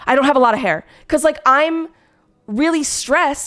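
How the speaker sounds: breathless, rushed reply; hurried, a little winded; out of breath. Retold or imitated. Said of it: "I'm really out of breath".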